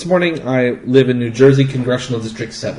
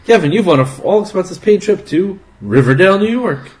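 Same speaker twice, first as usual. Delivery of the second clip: booming prize announcer; 6 semitones higher than usual. Pretend. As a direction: announce the grand prize with flair. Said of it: "Tell him what he's won, Johnny".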